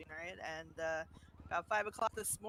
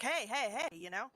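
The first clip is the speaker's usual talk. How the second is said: mild mock yell, pitched up; retold yelling; 3 semitones higher, faster than usual. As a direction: imitate calling insistently to a sleeper. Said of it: "I kept yelling at her".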